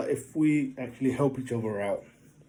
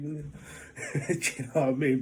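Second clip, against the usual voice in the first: laughing through the words, slowed; much slower than usual. Real, not acted. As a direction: chuckle as you ask. Laughing at own story.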